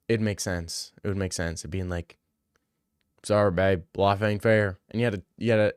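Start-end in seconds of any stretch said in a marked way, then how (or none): 3.2-4.8 lightly put-on southern US accent. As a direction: brush her off in a southern accent. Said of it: "you know, southern accent".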